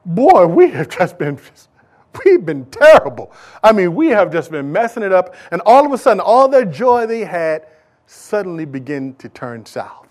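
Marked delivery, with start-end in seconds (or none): 0.0-5.3 remorseful people. Retold or imitated. The people of Israel confessing they blew it, lightly voiced. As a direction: voice the people realizing their sin. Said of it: "and they realize".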